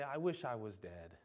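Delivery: mild mock whine; mock dramatic despair. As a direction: sulk it out like a melodramatic complainer. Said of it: "very dramatic".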